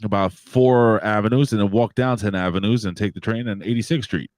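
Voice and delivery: lightly mimicked station announcement; half-acted public announcement to stranded riders; mock transit announcer. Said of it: "Then you hear, "Attention".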